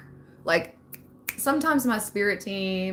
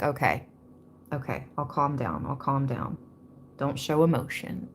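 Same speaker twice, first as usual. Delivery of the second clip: softer, lower, calming herself down; quiet self-talk; 5 semitones lower, 6 dB quieter than usual. Retold or imitated. To herself when someone tried to anger her, soft calming self-talk. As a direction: talk yourself into staying calm. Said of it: "And so I was like".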